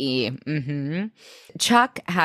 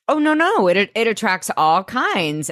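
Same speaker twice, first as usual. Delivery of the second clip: higher, flustered backpedal; flustered Blair; 4 semitones higher, 3 dB louder than usual. Retold or imitated. Blair covering for the guests to Mister Conwell, flustered. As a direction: rush to smooth it over.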